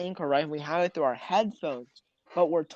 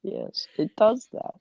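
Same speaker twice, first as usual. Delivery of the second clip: whisper; 6 semitones higher, slower than usual. Real, not acted. Whispered aside about the nose.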